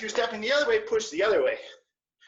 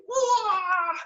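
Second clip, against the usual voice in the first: high delighted whoa; amazed whoa; 8 semitones higher than usual. Real, not acted. Reacting to kids hopping.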